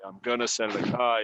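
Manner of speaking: I'm gonna sell the car, gonna as one slurred word; casual gonna. Shown as a demonstration. Teacher contrasting the casual version for friends. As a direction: say it the way you would with friends. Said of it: "si estás hablando con amigos".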